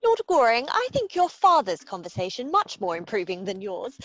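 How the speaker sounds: loud, cheeky tease of a fiancé; mock scolding, bright and loud; playful teasing. Young woman teasing her fiancé.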